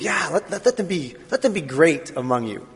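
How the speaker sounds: put-on half-dropped Jewish accent. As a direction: Jewish mother insisting, sliding back down. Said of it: "I have a Jewish accent".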